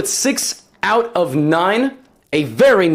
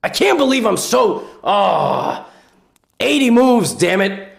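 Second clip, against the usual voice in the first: mock frustrated outburst, lightly voiced; comic voice-over of a frustrated player; Magnus; 4 semitones higher, slower than usual. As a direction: curse a drawn game in hammed-up dismay. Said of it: "so I'm gonna voice it over. This was Magnus when he realized it's a draw".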